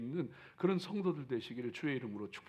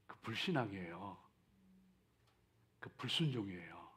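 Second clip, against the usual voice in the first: low, hushed verdict; quiet; 7 semitones lower, 8 dB quieter than usual. Shown as a demonstration. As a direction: say it softly and gravely. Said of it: "repeated later emphatic".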